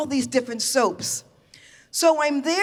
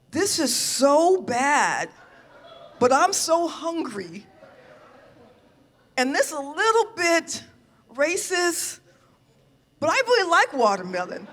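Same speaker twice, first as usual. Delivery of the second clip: higher, laughing, half-guilty confession; laughing inner voice; 3 semitones higher than usual. Retold or imitated. Given watermelon, laughing to herself about it. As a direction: giggle through it like a guilty pleasure.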